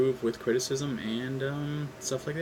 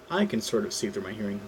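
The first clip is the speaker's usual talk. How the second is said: ordinary delivery, nothing marked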